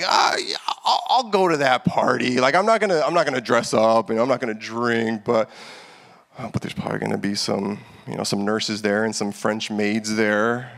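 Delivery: lightly voiced sheepish partygoer talking himself into it; mock churchgoer excuse. Pastor mocking a believer rationalizing a Halloween party, light sheepish voice. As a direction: play the self-justifying Christian, half-joking. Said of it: "Did you, like".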